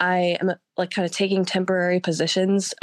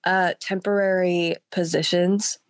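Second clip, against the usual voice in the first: hoarse voice from a cold; sick voice. Real, not acted. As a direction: talk through a sore throat. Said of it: "I've been sick all week".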